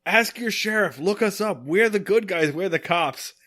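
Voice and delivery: retold indignant protest; mock protest. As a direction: imitate wronged cops pleading their case. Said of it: "they are protesting, saying".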